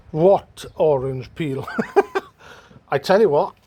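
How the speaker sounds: slow, laughing through the words; chuckle, pleased the finish came out smooth; laughing with delight. Real, not acted. Man laughing to camera at his smooth new paint finish.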